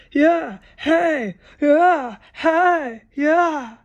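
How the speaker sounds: high, loud mocking yell; mock loud neighbors. Mocking the neighbors talking loud in the backyard, high loud yell. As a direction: holler it like the rowdy guys out back. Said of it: "started to talk really loud again".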